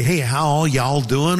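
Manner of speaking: mock Texan greeting; Texan accent. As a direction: put on a friendly Texas twang. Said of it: "people in Texas".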